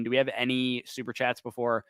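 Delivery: tired, worn-out voice; losing voice. Real, not acted. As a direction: talk through a fading voice. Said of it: "I'm losing my voice at the moment".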